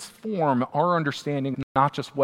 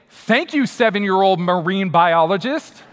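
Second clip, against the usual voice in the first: sarcastic thanks; 2 semitones higher, 4 dB louder than usual. Retold or imitated. Sarcastic reply to daughter.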